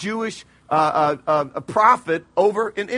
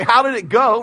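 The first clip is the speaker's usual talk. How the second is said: mock-excited, louder question; excited king; 3 semitones higher, 5 dB louder than usual. King eagerly asking the returning commander how it went, excited. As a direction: play a keen king, pushed a little louder. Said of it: "all excitedly say".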